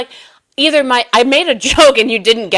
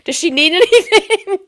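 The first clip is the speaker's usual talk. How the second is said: high concerned voice; 10 semitones higher than usual. Retold or imitated. Quoting concerned strangers.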